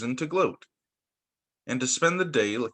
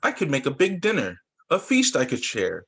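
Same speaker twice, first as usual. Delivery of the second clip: bigger bear voice. Acted. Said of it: "make these ones a little bigger".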